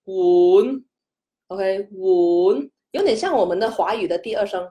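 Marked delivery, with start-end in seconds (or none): 0.0-0.8 碗 said with a clear upward slide; rising tone. Shown as a demonstration. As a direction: let 碗 slide upward like Mandarin second tone.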